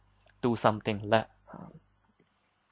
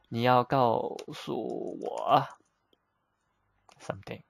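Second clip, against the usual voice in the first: slow, drawn-out model sentence; slow teaching demo. Shown as a demonstration. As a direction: model it slowly, word by word. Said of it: "so here is need".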